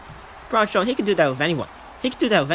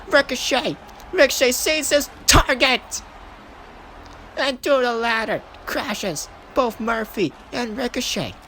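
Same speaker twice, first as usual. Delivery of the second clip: building hype; 5 semitones higher, slower than usual. Real, not acted. Big ladder crash.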